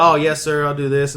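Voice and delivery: mild, deferential yes-sir voice; polite compliance. Retold or imitated. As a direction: play along politely. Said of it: "I was being so nice to them".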